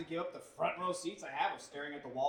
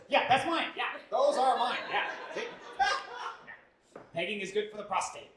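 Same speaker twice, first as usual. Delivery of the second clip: cheerful shameless admission; 5 semitones higher, 7 dB louder, slower than usual. Retold or imitated. Shameless reply to TSA agent.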